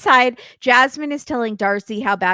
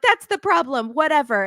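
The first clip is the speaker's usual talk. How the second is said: higher-pitched mock exasperation; exasperated retort; 6 semitones higher than usual. Woman arguing with her partner, mock exasperated. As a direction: imitate a fed-up girlfriend snapping back. Acted quarrel between couple.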